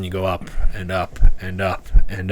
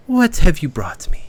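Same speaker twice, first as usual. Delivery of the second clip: whispered question; 7 semitones higher than usual. Acted. Tiefling asks party.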